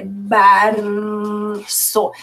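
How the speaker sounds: BARÇO with a very long, low held R; forced R. Shown as a demonstration. Teacher forcing the R so pupils notice it, exaggerated. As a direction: drag the R out before the final ço. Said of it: "Você pode dar essa forçadinha".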